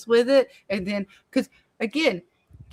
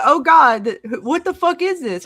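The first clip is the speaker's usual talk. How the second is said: higher, louder panicked squeal, hammed up; imitating panic; 6 semitones higher, 7 dB louder than usual. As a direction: play Jade freaking out, mock alarm. Retelling Jade panicking.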